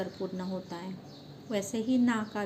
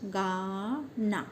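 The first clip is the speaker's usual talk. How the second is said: drawn-out word; much slower than usual. Shown as a demonstration. Teacher modelling गाना for children, very slow. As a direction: stretch गाना very slowly with a falling end. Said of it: "गाना शब्द की ध्वनि आवाज़ें कौन सी है?".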